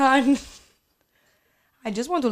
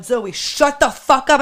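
louder, slow mock angry stepdad; imitating stepdad; 3 semitones higher, 8 dB louder, slower than usual. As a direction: bark it like a fed-up stepdad. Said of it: "my stepdad going".

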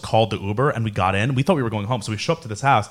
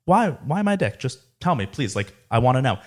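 soft, mildly pleading retold question; calm questioning; 4 dB quieter than usual. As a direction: ask calmly, as if reasoning with someone drunk. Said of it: "I turned around very calmly".

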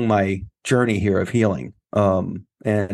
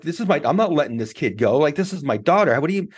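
retold defiant protest; 5 semitones higher, faster than usual. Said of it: "I got pissed".

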